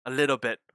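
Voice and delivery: "little bit" said with weight on "little"; stress on little bit. Shown as a demonstration. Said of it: "I emphasize on the phrase "little bit".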